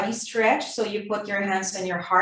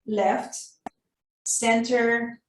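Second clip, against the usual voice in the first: words on a held breath; holding breath. Shown as a demonstration. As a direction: speak while holding your breath. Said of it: "hold your breath".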